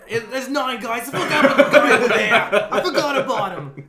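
put-on high laughing accent; panicked Greenlee, laughing through it; Greenlee impression. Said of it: "You literally just quoted Greenlee".

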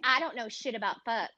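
character line, nearly laughing; Ruth voice through giggles. Acted. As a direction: hold the voice, fight the laugh.

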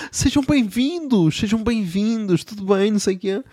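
mock delighted waiter voice; overly cheerful waiter. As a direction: greet them like a too-happy host.

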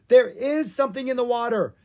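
high-pitched cry of alarm; screamed alarm. A narrator's reading. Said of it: "Ella screamed".

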